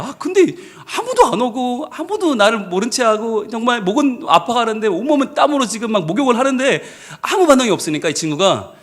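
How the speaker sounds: ordinary delivery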